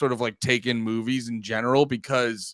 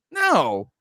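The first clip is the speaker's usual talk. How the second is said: mock scolding no.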